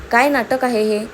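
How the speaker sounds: a touch of annoyance; irritated, understated challenge; mildly irritated. Acted. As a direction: demand an explanation with mild irritation. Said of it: "दक्ष चिडून म्हणाला".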